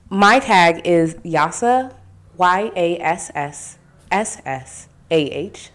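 "Y A S S S S A H" spelled slowly, each S drawn out; drawn-out s like a snake. Shown as a demonstration. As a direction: spell "Yassa" slowly, leaning on the S's. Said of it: "So four S's".

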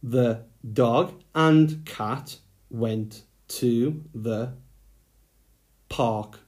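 slow, word by word dictation; slow dictation to young writers. Shown as a demonstration. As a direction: dictate each word slowly for writing. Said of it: "dictating sentence slowly".

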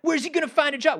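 high mocking whine; mock a small-minded naysayer; mocking whiny voice.

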